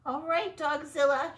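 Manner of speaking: very high, loud squeaky shout; mouse shout. Acted. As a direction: call out the dog bravely like a mouse. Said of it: "shouted the Big Cheese".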